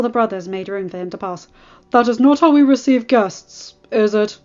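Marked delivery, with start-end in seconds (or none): 1.9-4.4 pointed question. A narrator's reading. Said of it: "he asked pointedly".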